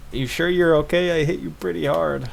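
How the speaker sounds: lightly voiced girl apologizing after a collision; energetic Emi voice. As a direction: blurt the apology like a hurried girl. Emi voiced while reading game.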